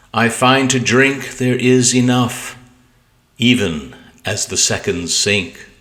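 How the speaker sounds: measured, deliberate poetry recital; poem reading. Acted. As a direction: read each line like a crafted verse. Reads his sonnet aloud.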